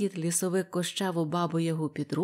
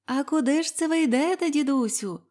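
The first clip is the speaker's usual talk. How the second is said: curious maidens; 7 semitones higher, 4 dB louder than usual. A narrator's reading. Maidens question the old man.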